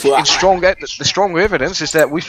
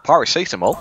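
put-on Australian accent. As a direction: play an Aussie official in an Australian accent.

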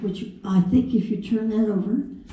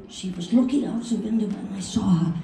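put-on German accent. Learner repeating Hal's practice sentence, German accent. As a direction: copy a coach's German accent. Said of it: "I could do a German accent".

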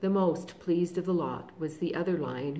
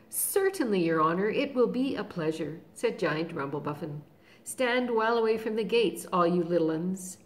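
a louder, hearty giant voice; eager giant; 4 dB louder than usual. Acted. Giant answering Aslan and warning the little ones, hearty. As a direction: boom out the giant's glad answer.

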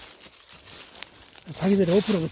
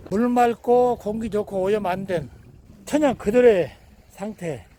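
travel promo narration; 3 semitones higher, 3 dB louder than usual. Acted. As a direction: sell the view like an ad.

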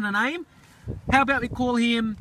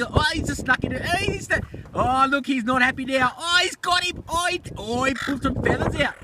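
excited commentary; 3 semitones higher than usual. Real, not acted. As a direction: caught up in the bird fight, voice climbing. Watching birds fight over meat.

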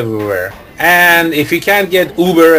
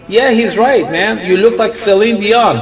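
retold passenger; 6 semitones higher than usual. Retold passenger chiming in loudly.

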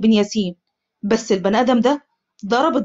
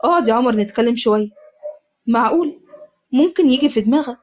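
calm. Acted. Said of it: "حذيفة بهدوء".

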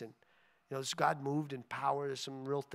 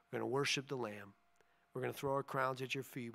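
closing prayer. Real, not acted. Pastor praying over his church before dismissal, earnest prayer. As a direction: pray over the people, steady and heartfelt.

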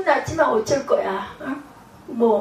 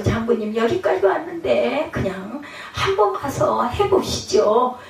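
coaxing servant. Retold or imitated. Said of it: "충성된 신하죠".

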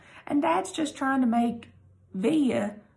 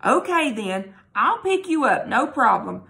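decisive; 2 semitones higher, 4 dB louder than usual. Acted. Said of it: "Mom said decisively".

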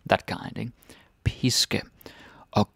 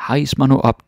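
yelling up; 5 semitones higher, 6 dB louder than usual. Acted. Soldier yells up to the witch.

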